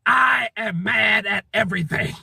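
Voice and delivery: hammed-up outrage without much extra volume; rooftop scream. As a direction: declare it like a half-contained scream. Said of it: "stand up and scream from the rooftops".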